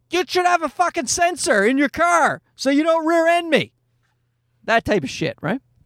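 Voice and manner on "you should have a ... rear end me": very high, high-pitched yelling scream. Recalling driving, the speaker acts out screaming at another driver, retelling own screaming. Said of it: "me screaming".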